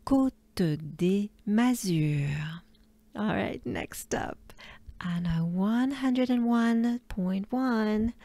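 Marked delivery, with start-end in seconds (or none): 0.1-2.6 Côte des Mazures whispered very slowly; slow whispered model. Shown as a demonstration. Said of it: "Big breath with me".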